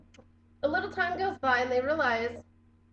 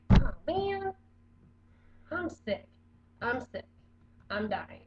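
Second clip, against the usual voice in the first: whiny sick complaint; 2 semitones higher, slower than usual. Retold or imitated. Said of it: "you're like".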